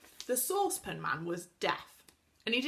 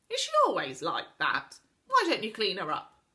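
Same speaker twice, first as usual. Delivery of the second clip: loud grumble; 7 dB louder than usual. Acted. Saucepan scolds, voiced louder.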